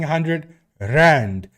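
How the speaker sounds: "rand" with a rolled R; slow, drawn-out "rand" with rolled R. Shown as a demonstration. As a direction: trill the R at the start of "rand". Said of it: "Let me roll my R's".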